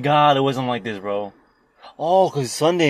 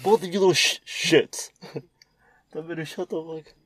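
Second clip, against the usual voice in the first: high tape voice; 5 semitones higher than usual. Retold or imitated. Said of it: "what do you say".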